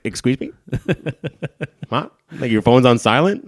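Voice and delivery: a hammed-up stunned outburst at his mom; incredulous. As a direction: hit it with shocked disbelief at the missed call.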